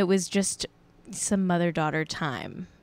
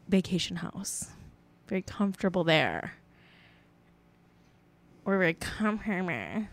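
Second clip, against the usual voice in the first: Jack's voice; 5 dB quieter than usual. Acted. Host voices Jack, the modest rich man, softly smug. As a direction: purr it like a coy rich man. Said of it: "that was the voice of Jack".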